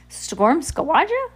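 put-on high, slow babbling baby voice; a tiny baby mangling a big word, slowly; baby babble. Sunny the baby speaks.

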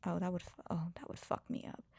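hushed, breathless aside; whispered aside. Real, not acted. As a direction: drop to a whisper, half to yourself. Whispered aside about own trauma.

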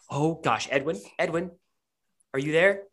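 lightly voiced character calling with rising questions; a tentative call to someone out of sight; a hint of anxious calling; voice behind a wall. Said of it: "You hear a voice on the other side".

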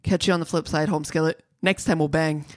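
flat, low, no expression at all; deadpan monotone delivery. Shown as a demonstration. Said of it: "I gotta try to say that in a monotone".

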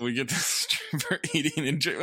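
energetic recap. Shown as a demonstration. Host starting the recap for the people, lifted energy. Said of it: "you gotta bring the energy up for the people".

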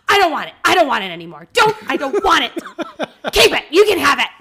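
imitated crying tantrum. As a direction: wail it like a kid throwing the sandwich back. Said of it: "Vivian's scream crying".

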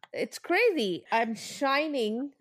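stiff face, barely moving mouth; through a face mask. Real, not acted. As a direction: talk with a tight mask on your face. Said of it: "I can barely move my mouth".

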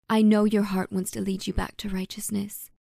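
put-on hushed, breathy old woman; whispered reassurance. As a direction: whisper it to his heart. Tender private reassurance.

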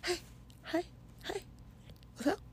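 high, soft, sing-song greeting; playful body voice. Pretend. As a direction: call out like a friendly little body checking in. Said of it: "your body can just be like".

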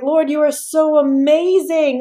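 high, loud, drawn-out praise; fervent praise. Retold or imitated. Retelling her prayer to the Lord on her knees, fervent praise. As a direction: cry out amazed gratitude, slowly and loudly.

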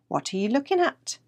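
a hint of a squeaky little mouse; squeaking mouse. A narrator's reading. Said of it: "the mouse squeaked at Tommy".

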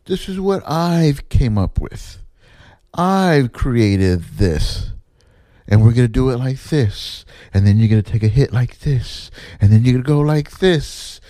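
mildly mock the self-satisfied man showing off his props; mocking the director. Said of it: "he keeps saying".

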